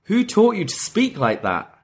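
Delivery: a mild mock shocked teacher; imitating Andre, startled. Retelling Andre scolding his student, mock shocked. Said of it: "Andre Chase is like".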